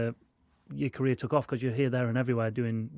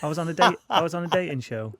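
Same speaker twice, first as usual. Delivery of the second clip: eager, teasing reveal; can't hold the news in; bursting with a secret; 4 semitones higher, 3 dB louder than usual. Real, not acted. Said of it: "He's dying to tell you".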